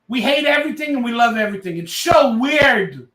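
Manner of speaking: a tipsy fan yelling his point; buzzed yelling. Real, not acted. To his viewers about Raider fans, a buzzed yell. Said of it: "Sorry, why am I yelling?".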